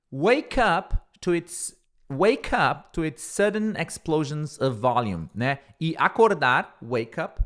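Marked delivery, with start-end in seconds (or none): 0.1-5.3 slow model phrase. Shown as a demonstration. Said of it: "models English phrase slowly".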